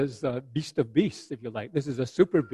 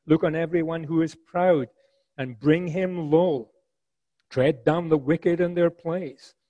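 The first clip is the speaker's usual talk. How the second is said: commanding God; 3 semitones higher, 5 dB louder than usual. Acted. Preacher reads God's command.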